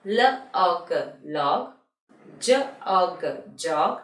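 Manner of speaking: "L og, log": separate sounds, then the blended word; phonics drill. Shown as a demonstration. Teacher leading revision to repeat after, sounded out then blended. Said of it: "you have to repeat after me".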